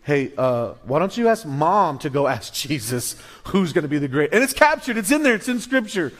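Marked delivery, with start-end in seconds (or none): 0.0-4.3 disciples asking. Retold or imitated. Disciples voiced asking mom.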